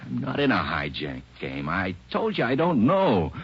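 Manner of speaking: angry protest. Acted. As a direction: plead your innocence hard. Interrogated suspect insists.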